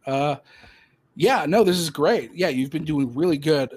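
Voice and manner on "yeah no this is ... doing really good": lightly acted enthusiastic boss; upbeat praise. Supervisor praising an employee before promotion, upbeat. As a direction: lift the pitch as you hand out praise.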